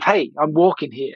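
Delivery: light put-on New York accent, a touch aggressive; a quick mock New Yorker shouting at traffic, New York accent. Podcaster mimicking a film New Yorker, light New York accent. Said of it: "Let's try to do a New York accent".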